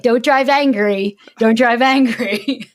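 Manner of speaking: slow, measured reminder to self; lightly mimicked self-restraint while seething; retold seething self-talk. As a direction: talk yourself down slowly, word by word. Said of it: "seething a little".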